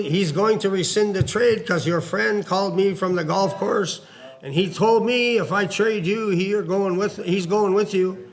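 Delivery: imitating a boss with a heavy French accent. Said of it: "with that heavy, uh, French accent goes".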